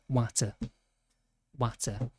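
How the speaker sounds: "water" said "watter", with a clear T; like German Wasser but with a T in "water"; short-vowelled Yorkshire "water"; Yorkshire pronunciation. Shown as a demonstration. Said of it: "but with T's instead".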